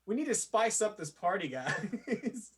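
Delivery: Jimmy Fallon. Retold or imitated. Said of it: "that sounds like Jimmy Fallon".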